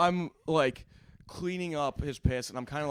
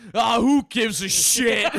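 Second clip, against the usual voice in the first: high, loud, slow mock shrug into a laugh; mock careless drunk; 10 semitones higher, 5 dB louder, much slower than usual. Drunk friend shrugging off the peed sign. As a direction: toss it off, then burst out laughing.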